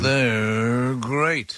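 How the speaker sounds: a hint of a cartoon tiger growl; lightly voiced cereal-box tiger; barely-there Tony the Tiger bit. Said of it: "That was me doing Tony the Tiger".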